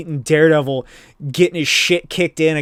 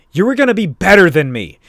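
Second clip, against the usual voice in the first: louder acted fatherly reproach; emphatic reproach; 3 semitones higher, 6 dB louder than usual. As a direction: press it home as the let-down dad. Ghost father reproaches his son.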